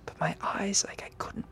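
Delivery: whispered, tense storytelling; a nervous whispered build of dread; hushed scary narration. Acted. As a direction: breathe it out like a campfire horror tale.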